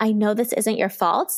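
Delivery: normal talking voice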